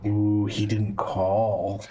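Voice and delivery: drawn out spooky voice; very slow sword voice; slow eerie whisper voice. Acted. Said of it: "swords in your mind go".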